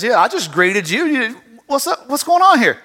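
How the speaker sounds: offended rabbit. Retold or imitated. Offended Brer Rabbit retold.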